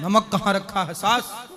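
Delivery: loud, disrespectful demand, done as a send-up; mock rude shout. Guru mimics a bahu shouting at her mother-in-law, mocking and loud. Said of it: "ऐसे बोलती हो?".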